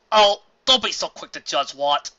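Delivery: gently scolding; chiding. A narrator's reading. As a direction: chide him lightly. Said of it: "Cloud Cover chided".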